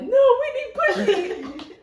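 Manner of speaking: high, slow whiny tattling with a laugh; whining little sister. Retold or imitated. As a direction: drag it out like a hurt kid telling on you. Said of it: "My sister's like".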